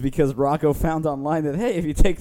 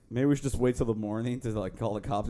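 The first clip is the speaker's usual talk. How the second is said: quiet imitation; 5 semitones lower, 6 dB quieter than usual. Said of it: "Derek would have said".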